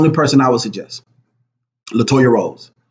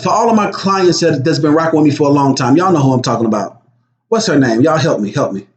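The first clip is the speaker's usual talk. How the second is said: ordinary delivery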